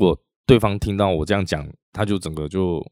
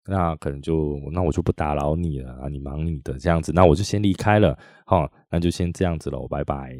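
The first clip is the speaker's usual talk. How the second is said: polite calm tone. Retold or imitated. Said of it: "和缓的语气哈，客气的语气哈".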